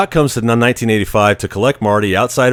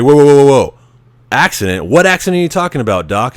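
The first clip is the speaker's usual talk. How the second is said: alarmed Marty; 4 semitones higher, 3 dB louder, faster than usual. Retold or imitated.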